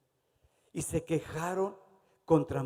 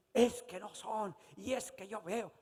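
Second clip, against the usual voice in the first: mock whiny complainer; 7 semitones higher, 3 dB quieter than usual. Mock complainer making excuses.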